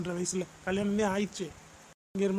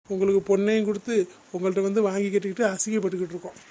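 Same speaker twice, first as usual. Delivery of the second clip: fast, raised indignant outburst; angry grievance; 4 dB louder, faster than usual. Acted. In-law complaining of being humiliated, angry. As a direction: pour out the humiliation angrily.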